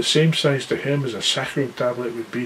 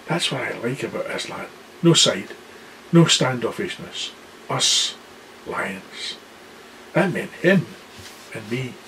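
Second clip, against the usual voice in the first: excited boast; 4 dB quieter than usual. Acted. Excited lion boasting to everyone.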